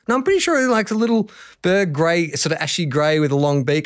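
high-pitched, pleading insistence; insistent protest. Retold or imitated. Tourist insists to doubting locals, high-pitched. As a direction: insist you saw it, voice up high.

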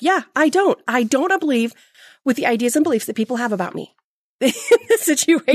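high, loud, laughing mock protest; hammed-up stubborn disagreement, laughing at herself; mock defiance. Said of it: "And I was like".

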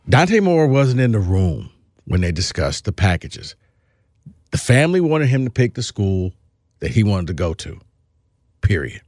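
measured, with long pauses between statements; slow, pointed explanation. Real, not acted. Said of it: "let me just say this slowly".

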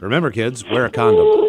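mock PSA announcer.

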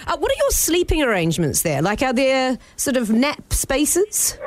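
bougie voice. Acted. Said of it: "put on a bit of a bougie voice".

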